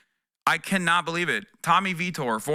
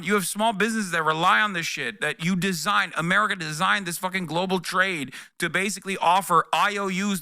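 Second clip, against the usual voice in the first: mock yell. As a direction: scold him like everyone yelling. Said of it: "everybody yelled at him".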